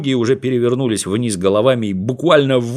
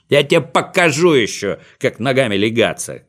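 shouting after. Acted. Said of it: "кричал ему вслед Винтик".

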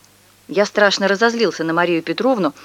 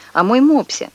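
louder, higher irritated exclamation; irritated cry; 6 semitones higher, 4 dB louder than usual. A narrator's reading. Neighbour insists to mother, louder and higher. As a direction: blurt it out again, annoyed.

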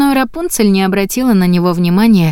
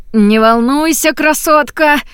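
fake confident; 8 semitones higher than usual. A narrator's reading. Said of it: "чтобы голос звучал так, будто у него всё под контролем".

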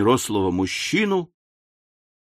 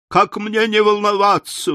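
much higher, a mild lamenting wail; 9 semitones higher than usual. A narrator's reading. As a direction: wail it out in grief. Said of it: "вопила вдова". (вопит, высоко и жалобно)

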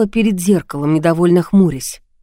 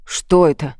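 ordinary delivery, nothing marked

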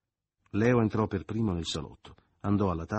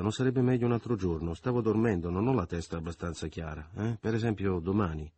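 evasive Leo. Acted. Leo brushing Michele off at door.

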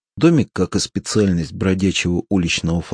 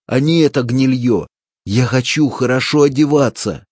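higher, louder, feverish yell; greedy shout; 6 semitones higher, 5 dB louder than usual. A narrator's reading. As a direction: rave about the riches. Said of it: "кричал Клапос".

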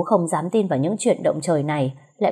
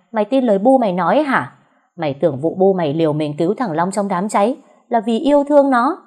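furious tirade. Acted. Tát thẳng vào mặt con Mai.

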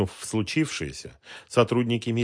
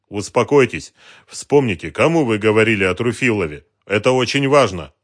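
urgent insistence; 3 semitones higher, 11 dB louder than usual. A narrator's reading. Detective insisting she name who she told, loud urgent. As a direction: cut through her panic. Dronго presses her again.

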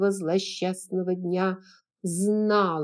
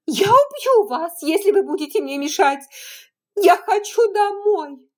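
shrill rising hysterical screams, much higher and louder; voice breaking; 11 semitones higher, 10 dB louder than usual. A narrator's reading. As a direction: lose control, from yelling to shrieking. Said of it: "и голос её сорвался".

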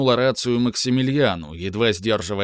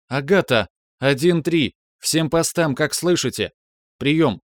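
raised, urgent radio call-out; 5 semitones higher than usual. Acted. Radio call to all posts. (громкий вызов по рации)

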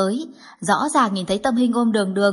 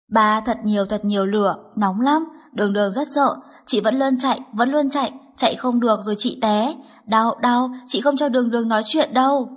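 put-on frightened little girl. Little girl telling her father about the fire, frightened. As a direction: tell it like a scared toddler reliving the fire.

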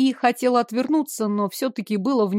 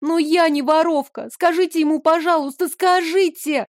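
high, urgent begging; pleading; 7 semitones higher than usual. A narrator's reading. Girl begs the shopkeeper to vouch for her. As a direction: beg him for help. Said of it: "умоляла я хозяина".

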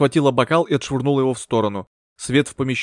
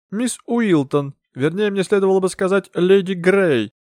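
a lightly voiced theatrical medium, slow start; the grand medium speaking to the séance table; medium's voice; 7 semitones higher, 3 dB louder than usual.

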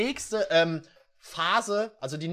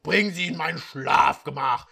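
louder commanding order; 3 semitones lower, 6 dB louder than usual. Acted. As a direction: order the servant about. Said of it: "befahl der Halbeinhornprinz".

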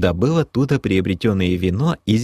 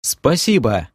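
heartfelt thanks; 5 semitones higher, slower than usual. Acted. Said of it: "от души поблагодарил я".

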